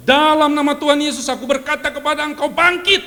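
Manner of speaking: commanding prayer. Retold or imitated. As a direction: proclaim it like you're raising the dead. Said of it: "Saya sebut namanya".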